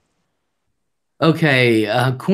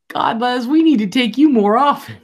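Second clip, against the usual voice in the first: raised, loud exclaiming; retold delight; 9 semitones higher, 5 dB louder than usual. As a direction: imitate a tickled friend cheering on the prank.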